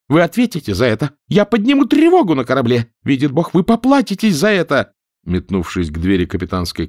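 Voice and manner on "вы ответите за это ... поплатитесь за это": high, loud, furious threats; woman threatening the captain in fury. A narrator's reading. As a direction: hurl threats at him in rage.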